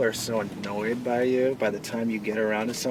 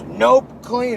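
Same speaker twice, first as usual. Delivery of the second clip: high, loud mock-proud announcement; retold crackhead friend; 11 semitones higher, 10 dB louder than usual. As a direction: imitate a crackhead friend insisting, pitched up. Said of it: "And he goes".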